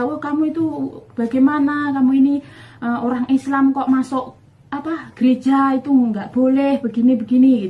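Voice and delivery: retold husband shouting about church; angry husband. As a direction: tell her off like a furious husband. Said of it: "marah-marah lagi".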